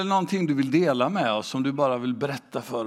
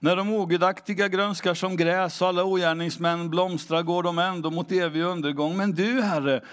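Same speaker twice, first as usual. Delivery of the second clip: scripture reading; 3 semitones higher than usual. Acted. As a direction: read the verse with reverence. Reads Psalm 92 aloud.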